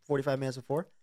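words a bit mushy from the gum; chewing gum while speaking. Real, not acted. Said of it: "I'm chewing gum".

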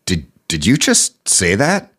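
slow, disbelieving inner voice of the advisor; slowly, as if you can't believe your ears; a touch of stunned disbelief; mock stunned aside. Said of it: "he, like".

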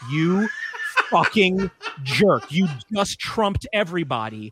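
slow, mock-indignant glare in words; retold seething resentment. Other kids silently cursing him, slow mock fury. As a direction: space out each word in mock outrage. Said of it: "I get the Luigi death stare".

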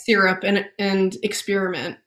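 "syrup" as SEER-up, "experiment" as ex-SPEER-iment; regional pronunciation. Shown as a demonstration. Guest from Maine, "syrup" and "experiment" with EER vowel. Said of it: "I also say things like".

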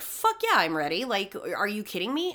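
a retold, gleeful yes; eager retort. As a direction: jump at the chance, fired up. Eager retort to her accuser.

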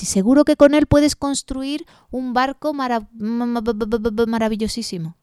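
mock stuttering on mara; playful stammer. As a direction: stammer the syllable before the word. Tree stammering on word.

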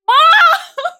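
high, loud imitated child's yell; calling for Mom. Frightened child in bunk bed calling Mom, high shout. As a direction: cry out for a parent in panic. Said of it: "Like, I'm calling to her".

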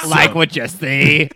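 slow, raspy seductive come-on; seduction voice. Pretend. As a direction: purr it out like a seducer. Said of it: "It's my seduction voice".

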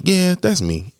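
imitated squeaky admission; high-voiced reluctant answer. His answer to unwanted therapist.

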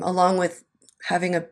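tinny lapel mic audio; hollow metallic tin can sound. Real, not acted. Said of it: "Sound like I'm in a tin can".

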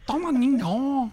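mock seductive. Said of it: "I'll do it for her".

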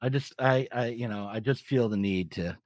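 muffled through a face mask. Real, not acted. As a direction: talk from behind a face mask. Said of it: "can you hear me through the mask?".

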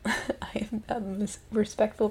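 slow, giggling through the words; laughing. Real, not acted. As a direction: laugh while stumbling over it. Laughing mid-word.

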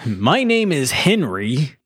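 slow, hammed-up announcer voice; mock a badly dubbed announcer introducing himself. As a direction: stretch it out like a parody announcer. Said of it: "is like an announcer".

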